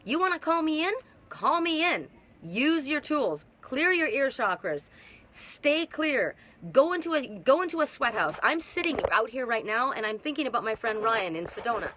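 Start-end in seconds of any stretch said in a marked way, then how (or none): 0.0-8.4 twin's voice. Retold or imitated. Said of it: "He's telling me".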